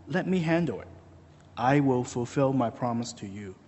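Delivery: soft, steady acted promise; calm reassurance. God promising Abraham and Sarah a son, calmly reassuring. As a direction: settle them down softly and surely.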